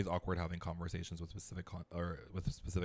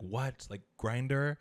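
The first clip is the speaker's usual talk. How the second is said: higher, louder incredulous quote; astonished question; 6 semitones higher, 5 dB louder, much slower than usual. Retold or imitated. Ariana overhears talk of Grindr, surprised. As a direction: react in disbelief to what you overheard.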